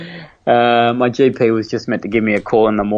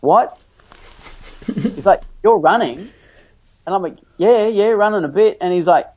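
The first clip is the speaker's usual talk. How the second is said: amazed doctor; 8 semitones higher than usual. Retold or imitated. Retold doctor amazed at running.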